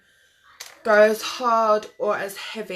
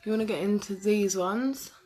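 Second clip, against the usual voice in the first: mascara face; 2 semitones higher than usual. Real, not acted. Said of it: "see my funny face I'm making".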